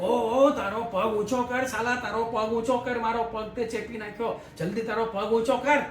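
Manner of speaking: pained shout. Retold or imitated. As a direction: yell at him to lift his foot off. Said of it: "ભોગી એ સાથે જ રાડ પાડ્યો".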